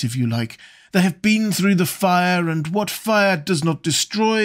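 a hint of an amused dandy; Lord Henry voice.

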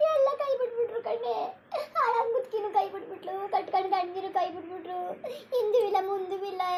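breaking into tearful half-laughs; crying lament; sob-laughing lament. Acted. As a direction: wail that life is ruined, half laughing. Sister weeps over ruined life.

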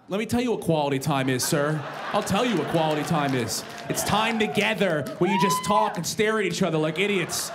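ranting. Acted. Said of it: "ranting at wife in act".

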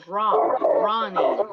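"Run, running" with an open vowel, as rahn, RAH-ning; correct vowel demonstrated. Shown as a demonstration. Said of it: "Es como con O".

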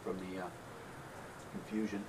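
talking around unlit cigar; cigar at the lips. Real, not acted. Seen 0: Speaker unsure; cigars held at lips throughout the labelled stretch.

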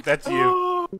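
high, amazed realization; surprised. Real, not acted. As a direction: realize it in disbelief. Realises it's teammate.

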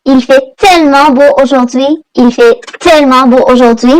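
slowed down, every word laid out clearly; slow model sentence. Shown as a demonstration. Teacher modelling a French sentence for Bengali learners, slow and clear. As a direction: say it slowly so learners can follow. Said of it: "teacher models a French sentence".

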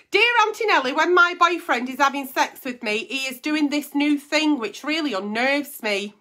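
letter reading. Acted. Reads a reader's letter aloud.

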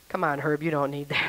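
low, hushed aside; soft, low re-enacted plea; confidential coaxing. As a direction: quietly talk a regular out of it. Confiding plea to bar customer.

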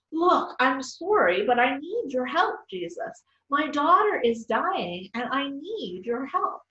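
a storybook mother calling out, understated; mild pleading yell. Acted. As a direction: beg for help, dragging the words. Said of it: "the woman began to yell again".

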